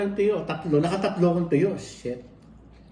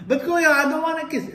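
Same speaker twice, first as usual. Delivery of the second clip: imitating cousin; 10 semitones higher than usual. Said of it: "Sabi ko".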